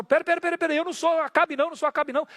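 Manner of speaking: a king begging for his life; panicked plea. Acted. King cries out to soldiers that he is not Ahab, high and frantic.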